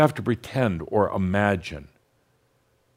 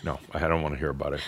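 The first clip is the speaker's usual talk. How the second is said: laughing brush-off; 6 semitones lower, 6 dB quieter, much faster than usual. Real, not acted. Joking after audience says too direct.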